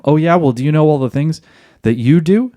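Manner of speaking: quick, snippy retort; defensive comeback. Retold or imitated. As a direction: fire it back defensively. Wife's defensive comeback, voiced.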